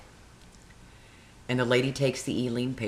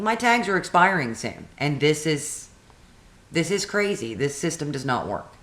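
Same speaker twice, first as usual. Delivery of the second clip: exasperated complaint; 3 semitones higher than usual. Retold or imitated. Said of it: "Of course, I didn't say my tags were expired".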